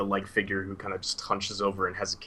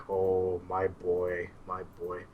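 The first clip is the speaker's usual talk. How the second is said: put-on higher, louder old man's voice, slow start; a kindly old mentor, animated and raised; old Suhail; 5 semitones higher, 8 dB louder than usual. Old teacher answering his student while strolling, higher and louder. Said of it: "Suhail kinda turns back to him and he's like".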